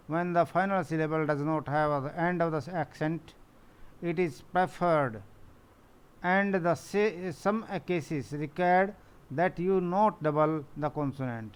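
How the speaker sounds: slow, deliberate reading of a textbook rule; slow rule dictation. Acted. Teacher reading the rule to her pupils, slow and deliberate. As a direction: spell out each phrase slowly for the class. Reads spelling rule aloud.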